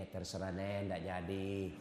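husband backing down to his wife, deflated and low; defeated husband, low and meek. Retold or imitated. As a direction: give in quietly, voice sunk low. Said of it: "sudah bilang suaminya".

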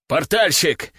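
loud call for the portal master. Acted. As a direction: call out sharply across the room. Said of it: "позвал он".

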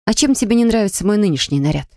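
puzzled. Acted. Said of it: "недоуменно спросила я".

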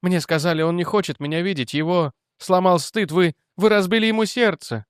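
high, trembling woman's voice; shaking as she speaks. Acted. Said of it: "дрожа". (дрожащим голосом)

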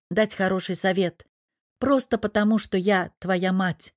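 ordinary delivery

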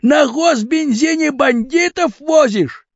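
high, slow indignant cry; high drawn-out indignant exclaim; outraged exclaim. A narrator's reading. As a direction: shout it in outrage. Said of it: "вскричал Тараканов".

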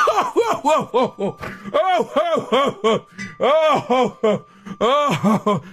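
high laughing oh's. Real, not acted. Laughing hard at her own joke. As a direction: laugh through each oh.

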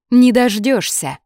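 loud, high, drawn-out refusal; emphatic "no chance" retort; defiant. Acted. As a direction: fling it back as a taunt. Sonya defies him in quarrel.

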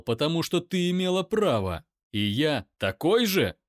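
loud shout back; loud pained shout; angry shout. Acted. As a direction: roar it in pain. Daimon explodes.

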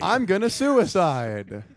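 slow, laughing mock answer; half-laughing joke reply to the interviewer; mock champion laughing. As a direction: laugh it out like a proud winner.

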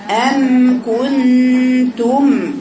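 أم كنتم drawn out very slowly with the lips closed on each م; lips closing on the mim. Shown as a demonstration. Teacher showing her girls the mim, lips fully closed, very slow. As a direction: hum the م of أم with lips sealed, very slow. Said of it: "لازم الشفايف توصل كده".

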